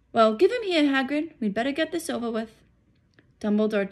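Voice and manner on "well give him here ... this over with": voiced wizard. Dumbledore addresses Hagrid.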